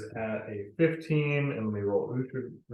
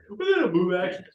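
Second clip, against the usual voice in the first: laughing; 8 semitones higher, 9 dB louder, faster than usual. Real, not acted. Player teasingly repeats another's phrase.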